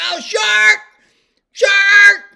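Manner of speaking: shrill, full-volume, very high panicked shriek. Retelling a panicked warning about a fin in the water: imitating someone yelling in panic. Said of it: "she's like".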